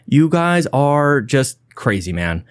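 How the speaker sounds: breathless after a long list; puffing, winded at the end; out of breath. Real, not acted. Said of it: "Whew, I'm a little out of breath".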